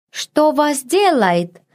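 high, slow, mangled words of a flustered maid; a maid in thick dialect, stumbling over words; broken northern dialect. A narrator's reading. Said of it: "Женщина говорила на северном диалекте, сильно коверкая слова".

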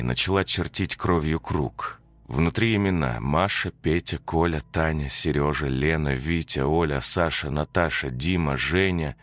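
ordinary delivery

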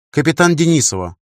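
firm, curt reply; curt correction. Acted. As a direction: cut in with rank and surname. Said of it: "отрезала она".

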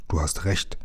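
low, hushed agreement; murmur. A narrator's reading. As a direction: agree under your breath. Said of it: "raunte Lukas". (tief und leise geraunt)

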